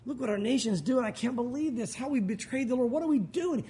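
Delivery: a long groan, then mild lament; understated wailing complaint; mock moaning. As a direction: lightly act out grieving over sin. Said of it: "moaning and going".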